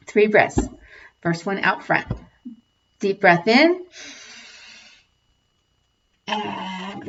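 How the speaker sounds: unhurried breathing cues with long pauses; calm breath coach guiding the tapping group; guided breathing. Acted.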